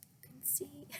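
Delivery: soft excited whisper. Real, not acted. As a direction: point it out quietly. Pointing out cats.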